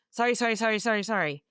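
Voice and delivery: acted panicky backpedalling; flustered apology. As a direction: apologize over and over to placate him. Flustered guest apologizing to angry host.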